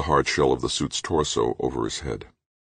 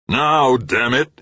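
much higher, louder roar; 11 semitones higher, 6 dB louder, much slower than usual. A narrator's reading. Grant roaring at Halleck to talk. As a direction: bellow it in rage. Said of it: "he roared".

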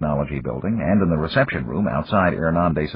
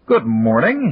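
light, breezy greeting; said lightly; 7 semitones higher, 5 dB louder, slower than usual. A narrator's reading. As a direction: toss it off easily, a bit louder. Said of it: "he said lightly".

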